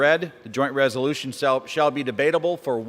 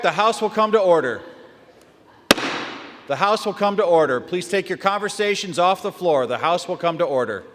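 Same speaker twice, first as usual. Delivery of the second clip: raised gavel voice calling order; 3 semitones higher than usual. Real, not acted. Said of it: "the House is not in order".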